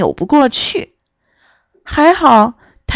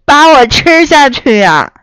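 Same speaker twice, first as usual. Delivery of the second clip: 惊吓; 4 semitones higher, 5 dB louder than usual. Acted. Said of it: "吓了一大跳".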